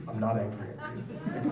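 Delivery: flat, emotionless robotic calm. Retold or imitated. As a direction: say it like a robot, no feeling.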